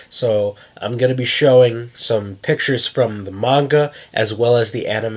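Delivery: blocked nose, speaking through congestion; stuffy nose. Real, not acted. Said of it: "I'm a little stuffed up".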